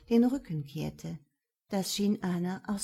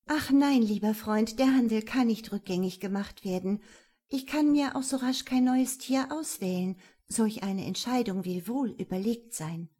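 louder, breezy and dismissive; a bit louder; 2 semitones higher than usual. Acted. Anna playing along loudly for the onlookers, louder. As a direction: speak up for the guests to hear. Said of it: "Wieder etwas lauter erklärte sie".

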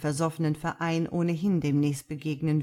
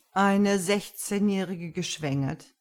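interested; 3 semitones higher than usual. Acted. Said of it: "fragte Lucifer interessiert".

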